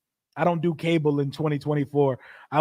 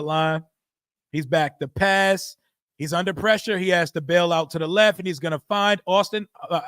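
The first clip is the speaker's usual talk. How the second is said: play-by-play; 2 semitones higher than usual. Acted. Streamer calling the Jets play for chat, excited play-by-play. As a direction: call the play like a TV announcer. Calls a live game play.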